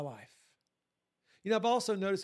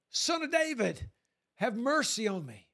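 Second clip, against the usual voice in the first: shouting out; 2 semitones higher than usual. Retold or imitated. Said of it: "began to shout even louder".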